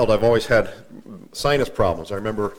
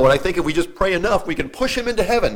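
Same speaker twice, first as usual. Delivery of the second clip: higher, sarcastic paraphrase; mocking; 6 semitones higher than usual. Preacher sarcastically paraphrases the officiant to listeners, mocking. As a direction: poke fun at praying someone into heaven. Parodying limbo idea.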